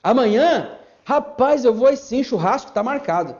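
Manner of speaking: hammed-up careless pastor on the phone; casual phone chat. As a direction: chat about the barbecue while someone weeps.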